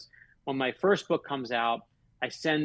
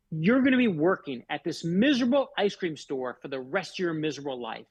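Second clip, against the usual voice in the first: mild mock yell, emphatic at the start; retold scream; 3 semitones higher than usual. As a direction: imitate an irate customer without really screaming. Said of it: "She screamed at me".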